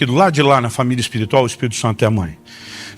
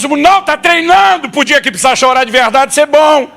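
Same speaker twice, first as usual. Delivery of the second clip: loud, high sarcastic yell with a laugh; sarcastic outburst; 8 semitones higher, 3 dB louder than usual. Retold or imitated. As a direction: blow up in mock disbelief. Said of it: "eu quero gritar pra Deus".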